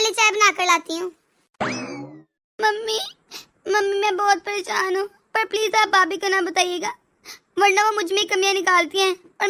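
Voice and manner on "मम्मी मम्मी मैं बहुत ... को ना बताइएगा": सिसकते हुए, धीमी आवाज़ में; crying. Acted. Daughter crying to mother. (माँ से रोते हुए गुहार लगाती बेटी)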